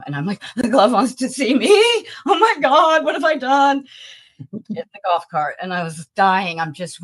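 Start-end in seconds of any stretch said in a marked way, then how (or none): 0.5-3.9 high, loud mock panic. Retelling her panic at the guard's summons, high and loud mock panic. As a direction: squeal it like you're in big trouble.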